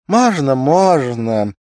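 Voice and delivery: high, loud and drawn out; a wife calling her husband in, forcedly bright; eager reply. A narrator's reading. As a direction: call out welcome with forced brightness. Wife answering loudly.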